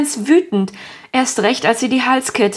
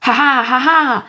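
laughing; 3 semitones higher than usual. A narrator's reading. Villain laughing within the told story.

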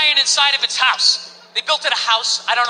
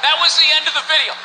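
indignant repeat; 2 semitones higher than usual. Acted. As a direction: repeat it in disbelief. Repeats punchline in disbelief.

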